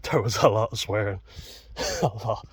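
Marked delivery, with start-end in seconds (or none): 0.1-1.2 words broken up by laughter; laughing while talking. Real, not acted. Admitting the swearing to viewers, laughing. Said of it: "I'm laughing". 1.2-2.0 a quiet unvoiced chuckle; breathy laugh. Real, not acted. Chuckling at his own swearing, laughing quietly. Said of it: "I'm laughing".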